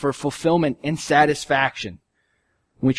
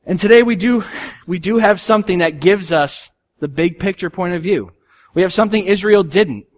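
preaching at full force; 4 semitones higher than usual. Acted. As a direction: build the congregation up with conviction. Rising sermon passage.

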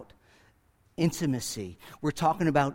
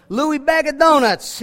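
loud, high mock Italian-American street call; hollering for a sheep like a New York Italian wiseguy; Italian shepherd voice; 9 semitones higher, 7 dB louder than usual. Pastor imagining an Italian shepherd calling his sheep, loud mock Italian-American accent. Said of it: "if this was an Italian shepherd".

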